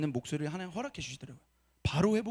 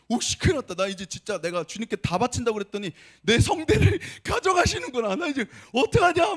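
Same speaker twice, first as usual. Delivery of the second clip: higher, louder mock panic; retold panic; 3 semitones higher, 5 dB louder than usual. Pastor retelling coughing up blood, mock panic. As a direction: replay the alarm of coughing blood.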